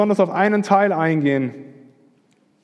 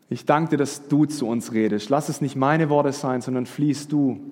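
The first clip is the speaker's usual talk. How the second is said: prayer. Acted. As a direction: pray aloud over the congregation, growing more hushed. Leads the congregation in prayer. (inniges Gebet, zum Ende leiser werdend)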